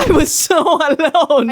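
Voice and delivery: a laughing lament over being lonely; mock wailing.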